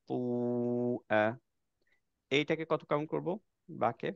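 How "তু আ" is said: teacher modelling four counts; four-count madd demo. Shown as a demonstration. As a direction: hold তু আ for four full counts. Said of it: "এটাকে পড়বো চার count দিয়ে".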